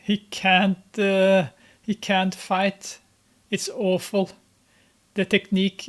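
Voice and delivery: real disbelief, voice pushed up; excited. Real, not acted. Viewer reacting to a terrible fighter, loud and excited.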